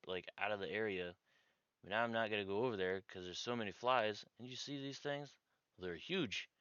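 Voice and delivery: put-on Brooklyn-accented farmer telling his story; lightly put-on Brooklyn accent for a farmer. Farmer telling reporter about his dead animals, Brooklyn accent. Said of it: "he's got a Brooklyn accent".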